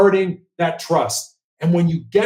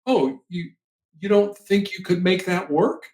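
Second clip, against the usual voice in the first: soft, curious questioning tone; hushed curious mirroring back to a person in crisis; 4 dB quieter than usual. Shown as a demonstration. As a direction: mirror their words back with gentle curiosity. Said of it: "you do it in a curious voice".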